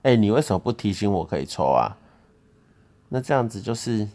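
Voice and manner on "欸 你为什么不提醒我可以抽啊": louder, blaming question; imitating his accusing tone. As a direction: show how he really said it, accusing. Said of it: "你的语气不是这样".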